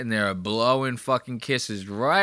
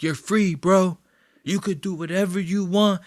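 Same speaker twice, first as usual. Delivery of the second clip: Logan quote; 5 semitones higher than usual. Retold or imitated. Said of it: "he was like".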